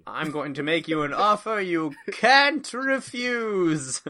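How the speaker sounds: slow mock gangster; lightly voiced mafia don; mafia boss voice. Quoting The Godfather.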